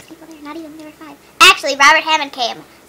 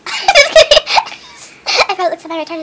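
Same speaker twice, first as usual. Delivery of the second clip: laughing; 3 semitones higher, much slower than usual. Real, not acted. Laughing at self on camera.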